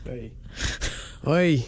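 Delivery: mock old Jewish accent; old Jewish man impression. Co-host answers accent challenge, mock old Jewish voice. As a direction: put on an old Yiddish-accented voice. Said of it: "your old Jew impression".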